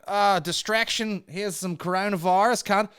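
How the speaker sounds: high, loud Australian parody; slow hammed-up Australian shout; mock Australian announcement. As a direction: call it out in broad mock Australian. Acts Australian announcing a distraction.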